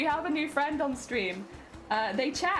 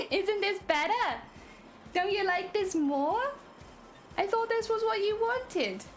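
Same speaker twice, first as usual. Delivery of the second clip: anime voice; 3 semitones higher than usual. Pretend. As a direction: coo it like an anime girl. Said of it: "We'll go full anime".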